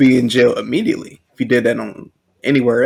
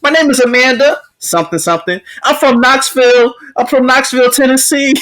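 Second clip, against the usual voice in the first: high, whiny imitation; play-crying protester voice; mock crying; 11 semitones higher than usual. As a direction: give details as a mock-tearful woman. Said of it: "she's crying".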